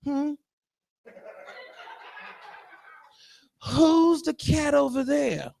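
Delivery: a touch of lion growl, then drawn-out chat; lightly acted lion small talk; lightly voiced lion. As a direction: play a lion casually chatting with a friend. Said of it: "can you imagine two lions".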